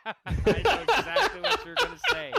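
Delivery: talking through loud laughter; words breaking into laughs; laughing. Real, not acted. Both laughing hard.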